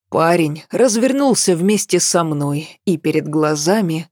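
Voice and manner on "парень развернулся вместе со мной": plain reading voice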